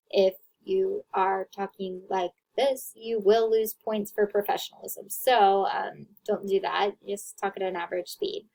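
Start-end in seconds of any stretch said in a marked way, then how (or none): 0.1-2.9 slow, drawn-out demo speech; slow motion. Shown as a demonstration. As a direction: talk slowly like in slow motion. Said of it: "Don't talk in slow motion".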